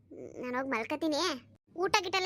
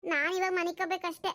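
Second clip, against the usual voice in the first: put-on higher-pitched, aggrieved young wife; complaining daughter-in-law; 5 semitones higher than usual. New daughter-in-law refuses to cook tonight, complaining. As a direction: grumble like a put-upon new bride.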